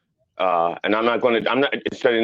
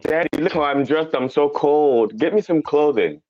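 mock girl whining to daddy; 4 semitones higher than usual. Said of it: "So she's like".

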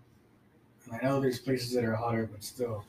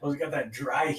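dismissive coworker; 3 dB louder than usual. Retold or imitated. Arizona coworker belittling Texas heat, lightly mocked boast. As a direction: imitate someone scoffing at the heat, voice pushed up. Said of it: "He's like".

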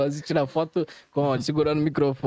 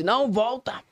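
calling out; 7 semitones higher than usual. Retold or imitated. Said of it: "O nego tava assim".

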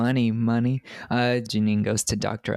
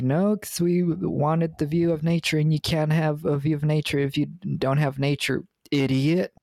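mock smug yoga guy; 5 semitones higher than usual. Voicing the yoga guys.

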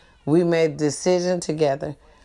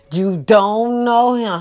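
slow, louder stern coaching line; stern denial; 2 semitones higher, 5 dB louder, slower than usual. Shown as a demonstration. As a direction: drill the denial firmly, drawn out. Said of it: "Stay stern".

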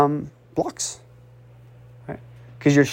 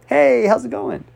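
friendly smiling hello, pitched up; smiling greeting; 5 semitones higher than usual. Shown as a demonstration. Coach showing good body language to listeners, smiling greeting. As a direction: greet someone with a smile in the voice. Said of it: "You're smiling".

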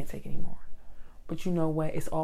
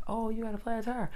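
imitating a passerby; 5 semitones higher, 4 dB quieter than usual. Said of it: "Then there was a black guy".

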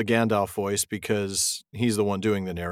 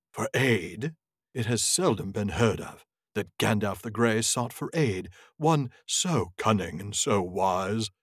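a touch of a haughty wizard, slowed down; lightly voiced Saruman. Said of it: "a Saruman voice here".

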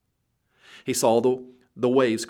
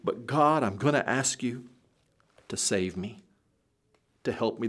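desperate prayer; 3 semitones higher than usual. Acted. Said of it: "this is a desperate prayer".

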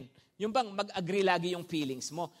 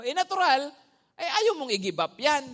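louder, higher preaching build; emphatic preaching; 7 semitones higher, 8 dB louder than usual. Acted. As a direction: punch natural like an accusation. Preacher peaks on natural.

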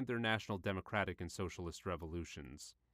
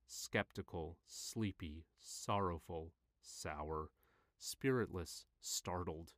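subdued downcast reading; 2 semitones lower, slower than usual. Acted. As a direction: let each word sink. Reads list of negative feelings.

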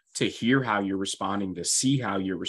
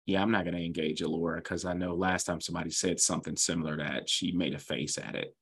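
wary aside; 3 semitones lower, 5 dB quieter than usual. Retold or imitated. Acted private thought of wary colleague.

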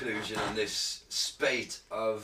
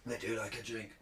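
put-on Russian accent; 3 semitones lower, 5 dB quieter than usual. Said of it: "that's the same as my Russian accent".

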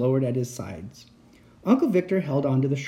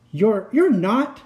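high, shaky-edged protest; scared insisting; 8 semitones higher, 5 dB louder, slower than usual. Acted. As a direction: insist through fear. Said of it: "I insisted".

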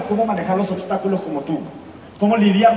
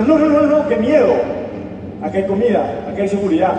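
mock fearful dog; 4 dB louder than usual. Dog refuses the wild world, mock frightened. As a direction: recoil from the idea, then settle.

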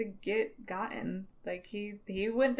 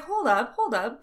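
firm hold up; 5 semitones higher, 6 dB louder than usual. Retold or imitated. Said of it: "He's like".

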